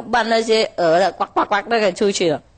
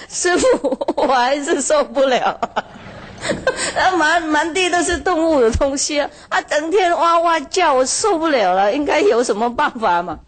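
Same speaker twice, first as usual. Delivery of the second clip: higher farmer voice, laughing through the complaint; complaining farmer; 4 semitones higher than usual. Retold or imitated. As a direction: whine high with laughter breaking in. (农夫又跑回来向师父诉苦，边笑边抱怨)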